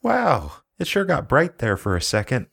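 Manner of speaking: high-pitched wide-eyed wonder; mock amazement. Joking as someone hit by radiation.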